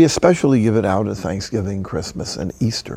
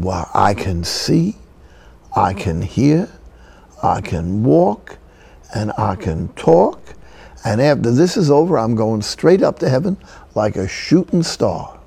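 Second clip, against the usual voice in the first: put-on old-fashioned Southern Afro-American accent. Old lady counts her blessings to the priest, Southern Afro-American accent. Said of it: "this is an old-fashioned Southern Afro-American accent".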